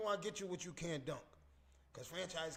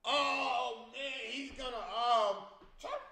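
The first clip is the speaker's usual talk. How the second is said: mock hyped shout imitating a friend, higher and louder; excited shout; 8 semitones higher, 8 dB louder, much slower than usual. Imagining Franchise reacting to the video, hyped shouting. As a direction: yell it like Franchise spotting the video. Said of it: "I know he's like".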